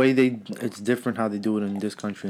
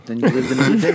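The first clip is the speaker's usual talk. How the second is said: louder, laughing punchline; 5 dB louder than usual. Real, not acted. Dark joke, laughing, louder.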